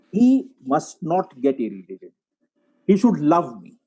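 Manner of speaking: "must" and "should" weighted, slowly spaced out; stress on must and should. Shown as a demonstration. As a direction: lean deliberately on "must" and "should". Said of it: "the must and the should, that's the emphasis".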